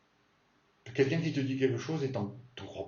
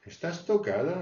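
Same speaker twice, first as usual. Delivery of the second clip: higher, louder are-you-nuts tease; mock incredulous; 6 semitones higher, 3 dB louder than usual. Shown as a demonstration. Teacher showing students how to tease, high and louder. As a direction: ask it high like they've lost it. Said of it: "on peut dire aussi".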